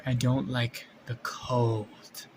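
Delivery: slow, drawn-out snake-like monster; lazily slow creature voice. Acted. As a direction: stretch each word like a cold-averse serpent. Snake monster speaks in drawn-out words.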